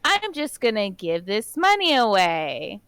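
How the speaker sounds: slow, oily mock pitch; mock sleazy salesman. She mocks the candidate as a sleazy salesman, slow and oily. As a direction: sneer it like a shady car salesman.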